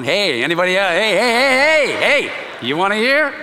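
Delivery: eager calling hey hey; calling out eagerly. Retold or imitated. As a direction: shout it across the quad. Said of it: "I was walking around going".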